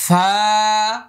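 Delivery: airy ফা held one beat; airy letter demo. Shown as a demonstration. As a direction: breathe out ফা between teeth and lip. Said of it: "এক আলিফ পরিমাণ লম্বা".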